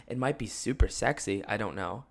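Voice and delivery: groggy early-morning voice; raspy just-woke-up voice. Real, not acted. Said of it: "my morning voice".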